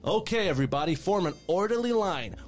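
very high, loud cheery elf; overly bright elf greeter; chirpy elf voice. Acted. Elf character voice.

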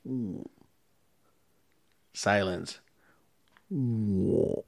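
quiet mechanical groan; imitated engine noise. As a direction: imitate a weak engine trying to turn over. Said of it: "and it goes".

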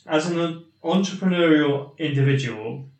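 measured read-aloud of a listener's email; deliberate, articulate email reading; slow, clear reading. Real, not acted. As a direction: read the letter out carefully and clearly. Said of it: "I'll read it slowly, yeah, and hopefully clearly".

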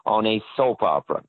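a hint of the agent, stress on no; the agent lightly imitated, laying down the law; imitating Stark Hasseltine. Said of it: "This is how he talked".

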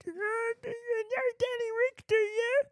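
matey pub regular; pub man. Acted. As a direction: put on the pub man, buttonholing a mate. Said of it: "a voice note of my pub man".

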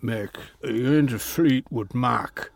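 put-on rough go at an Irish accent; a rock singer. Rock star asking young fan, badly faked Irish accent. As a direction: have a shaky stab at Irish. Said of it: "And he said to me".

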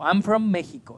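"Mexico" said MEH-hee-ko within English; Spanish pronunciation. Shown as a demonstration. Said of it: "yo digo México".

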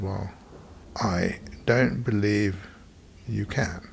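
put-on a slowed, dismissive upper class English accent; a touch of a slow, snooty Etonian drawl. Salesman doubting Mickey can pay, slow upper class English accent. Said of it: "in a very upper class English, Etonian voice".

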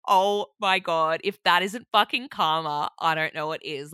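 shocked laughing outburst. Real, not acted. Girl finding rat ate her hoarded avocados, loud and stunned. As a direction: draw it out, loud and amazed.

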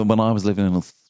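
lightly mocked Australian accent. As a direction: say it like the friend's Australian twang. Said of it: "The way you close your mouth in Australia".

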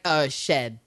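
deadpan put-down. Retold or imitated. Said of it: "Marion's like".

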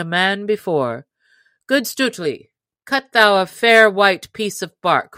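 a hint of a merry outlaw leader inviting him in; booming, good-humoured welcome, lightly played; lightly voiced hearty outlaw chief. Robin voiced in story.

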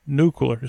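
Nuclear said "nucular"; trying out Nuclear as "NOO-kyuh-ler"; mispronounced nuclear. Acted. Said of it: "I didn't know you pronounced it that way".

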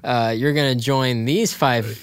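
slow, punchy trailer narrator; eighties trailer voice. Acted. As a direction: sell it like an old movie trailer. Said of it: "like, an eighties trailer".

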